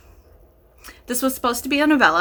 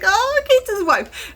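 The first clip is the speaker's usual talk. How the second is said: high, slow, dreamy swoon; swooning gush; 11 semitones higher, slower than usual. Retold or imitated. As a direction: gush over it like a smitten fan. Swooning gush over book romance.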